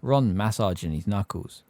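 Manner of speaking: ordinary delivery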